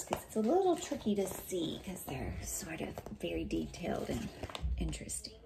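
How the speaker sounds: muttered aside. Real, not acted. Aside while holding up pictures.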